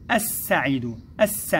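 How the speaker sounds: السعيد with the L dropped, doubled S held long; silent lam pronunciation. Shown as a demonstration. Teacher showing first graders the unwritten sound, silent lam pronunciation. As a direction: draw out الس, straight from A into a long S. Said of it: "تكتب ولا تنطق، نقول".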